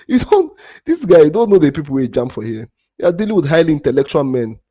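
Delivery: loud, high angry outburst at a viewer; he lashes out, voice jumping high and loud; real anger. Real, not acted. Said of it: "Yes, I'm angry".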